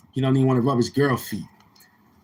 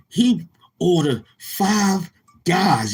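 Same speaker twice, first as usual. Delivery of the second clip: mock disbelief; 5 semitones higher, much slower than usual. Mocking the five guys order.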